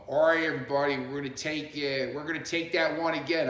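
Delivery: imitated film-set announcement; megaphone announcer. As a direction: call out to the whole set as if through a megaphone. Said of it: "on the megaphone going".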